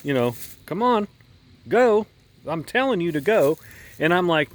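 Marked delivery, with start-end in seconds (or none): 0.7-3.6 impatient flagman pushing, pitched higher; mildly upset flagman. Retold or imitated. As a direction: urge them on like an irritated flagman. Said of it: "he's getting mildly upset".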